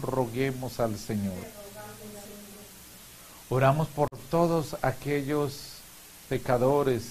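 measured, solemn prayer intentions; liturgical prayer. Real, not acted. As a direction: lead the congregation in prayer. Leads prayers of the faithful.

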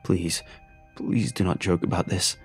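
whimpering father. Acted. A grieving father whimpering a plea down the phone. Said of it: "he whimpered into the phone".

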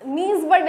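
"नीजबर्ड" said as one word, not spelled out; acronym as word. Shown as a demonstration. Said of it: "इसको pronounce कर सकते हैं".

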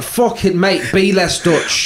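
laughing, high and slow; bursting into laughter mid-retort. Retold or imitated. Laughing at the guide, telling him to stop. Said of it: "I'm like".

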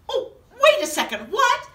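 giggling mock confusion; laughing protest. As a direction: laugh through the complaint. Reacting to silly book.

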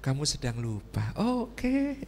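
drawn-out patient humouring; unbothered husband. Acted. Husband lets angry wife keep talking, unbothered indulgence. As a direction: humour them, stretching the words. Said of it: "Biasa aja".

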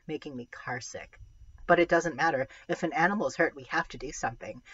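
storytelling read-aloud voice; story narration. A narrator's reading. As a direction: read it like a middle grade novel. Reads a novel aloud.

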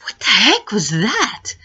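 slow, breathless whisper of disbelief; shaken whisper. Retold or imitated. Driver whispering to herself after the near miss, shaken. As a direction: whisper it like you're still rattled. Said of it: "but I was shaking".

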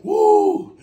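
loud, high pained woo. Real, not acted. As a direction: shout out the burn. Reacting to spicy heat.

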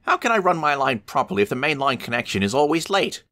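high-pitched cross grumble; complain, fed up with waiting; a little engine grumbling crossly; impatient grumble. Acted. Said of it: "he grumbled impatiently".

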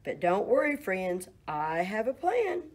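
loud, high quacked refusal; quacking duck. Acted. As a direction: quack the no, then scheme. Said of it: "The duck quacked".

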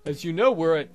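hammed-up French accent for a governor. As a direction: welcome the captain in a mock French accent. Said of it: "Thanks, Frenchy Lepew".

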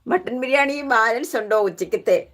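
lightly imitated reporter questioning, breaking into laughs; mock news reporter. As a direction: put on a playful reporter's interrogation. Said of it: "വാർത്തക്കാർ ചോദിക്കുന്ന പോലെ". (വാർത്തക്കാരെ കളിയാക്കി അനുകരിച്ച്, ചിരിയോടെ)

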